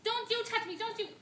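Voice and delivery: high, loud angry outburst; furious warning. Acted. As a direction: drive your husband away with your voice. Wife repels husband in quarrel.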